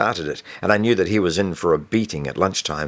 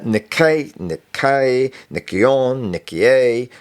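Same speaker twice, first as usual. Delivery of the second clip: nervous stammer; 5 semitones higher, much slower than usual. Acted. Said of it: "he continued".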